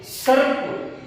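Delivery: सर्प stretched very slowly and breathed out; drawn-out whisper. Shown as a demonstration. Teacher repeating सर्प to the class, slow and whispered. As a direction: whisper सर्प, dragging the word out. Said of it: "अब एक बात".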